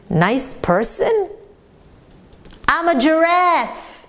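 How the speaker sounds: slow, indignant correction; offended classmate correcting the student who complimented him; offended retort. Retold or imitated. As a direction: draw it out, insulted.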